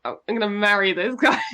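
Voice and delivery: laughing out the words with a shout; laughing gush. Real, not acted. Reading a contestant bio to her co-host, laughing. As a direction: blurt it through a laugh, delighted.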